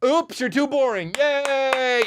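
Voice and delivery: high, squealing mock cheer; shrill joke heckle from the back pew. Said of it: "Imagine me out fucking the".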